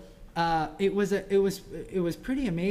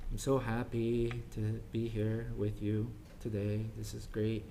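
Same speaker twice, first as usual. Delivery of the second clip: sarcastic tone; 5 semitones lower than usual. Shown as a demonstration. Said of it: "but the tone implied something totally different".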